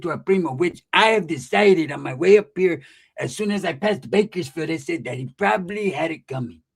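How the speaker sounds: a hint of a drawling homeboy; lightly voiced cholo cousin. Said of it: "So Pepe's like".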